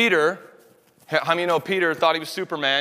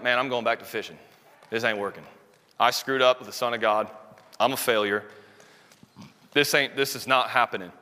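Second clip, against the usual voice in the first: defeated Peter; 4 semitones lower than usual. Retold or imitated. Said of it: "imagine being Peter".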